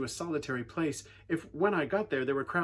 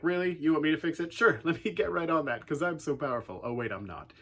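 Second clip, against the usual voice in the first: mock eager, dry and teasing; sarcastic; 2 semitones higher than usual. Believers answering God's task, lightly sarcastic. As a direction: answer God with a wry joke. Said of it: "we're like".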